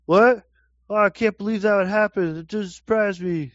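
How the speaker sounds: high, loud fake surprise; mock shocked interviewee. Imitating interviewed locals for the co-host, hammed-up high shock. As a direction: overplay a stunned passer-by. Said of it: "and they're like".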